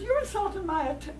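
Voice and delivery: hammed-up insulted coyote; indignant coyote. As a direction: bristle at being called a liar. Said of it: "he says".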